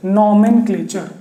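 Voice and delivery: नॉमेनक्लेचर said slowly, syllables drawn out; slow repeat. Shown as a demonstration. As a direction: stretch नॉमेनक्लेचर out for the class. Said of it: "ध्यान से".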